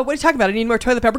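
ordinary talk

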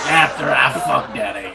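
mock shout. Quoting cartoon character line.

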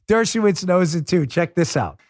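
normal talking voice

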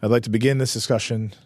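low, serious announcer voice; deep firm voice. Acted. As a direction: drop the voice low and grave. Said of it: "Why is your voice so deep?".

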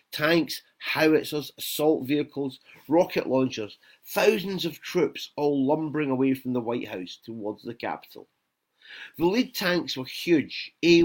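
measured reading-aloud voice; story narration. A narrator's reading. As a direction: read the novel to an audience, phrase by phrase. Author reads his novel aloud.

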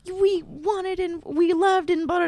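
high, slow gushing quote; high-pitched retold fondness tailing into blah; imitating sweetness. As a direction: draw it out sweetly up high, mimicking praise. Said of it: "she was so sweet".

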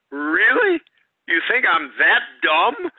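sharp jump up on Really, then back down; incredulous thought. Retold or imitated. New guy mocking the backstage act, incredulous. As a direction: scoff at being taken for a fool. Inner thought, sarcastic disbelief.

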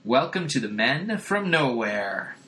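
a hint of a cheesy club leader; jovial leader. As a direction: greet the odd crew grandly. Leader greets strange men.

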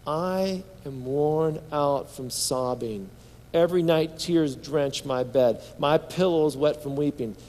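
slow, weighty psalm reading; measured, understated sorrowful recitation; scripture lament reading. Acted. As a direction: draw out each line of the lament. Reads psalm lament aloud.

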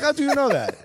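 mock a local's high-pitched astonishment; astonished French fan. French fan quizzing the visiting American, astonished. Repeats the French fan's question.

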